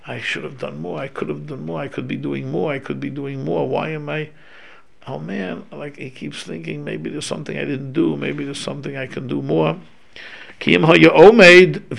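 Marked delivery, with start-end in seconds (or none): 0.1-9.8 quiet regret. Retold or imitated.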